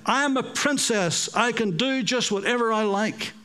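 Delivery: lightly voiced stamping little girl; a hint of a spoiled princess; bossy little princess. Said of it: "stamped her foot".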